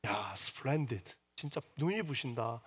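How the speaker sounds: soft, very slow, dazzled praise; awed fatherly praise. Retold or imitated. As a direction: marvel at your daughter softly. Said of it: "혹시 딸을 보게 되면은".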